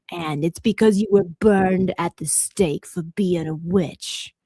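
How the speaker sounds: put-on Caribbean-accented TV medium; slow, assured medium with a Caribbean accent; Madame Cleo. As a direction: pronounce a verdict in a Caribbean accent. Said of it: "have you ever heard of Madame Cleo".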